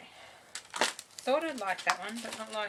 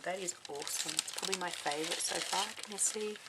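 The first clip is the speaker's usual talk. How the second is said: sniffling; 6 dB quieter than usual. Real, not acted. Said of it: "Sorry, excuse my sniffling".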